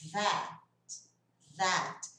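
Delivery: "that" begun with a voiced TH; vibrating TH. Shown as a demonstration. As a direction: buzz the tongue at the start of "that". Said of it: "daí vai vibrar aqui".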